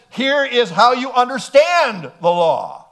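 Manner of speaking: a hint of a solemn judge ruling; lightly voiced court verdict; mock court ruling. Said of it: "the Supreme Court says".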